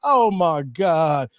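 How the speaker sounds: slow, drawn-out imitation; Deontay Wilder. Host imitating a boxer's reaction, slow mock astonishment. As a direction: stretch it out like the boxer. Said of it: "Like Deontay Wilder".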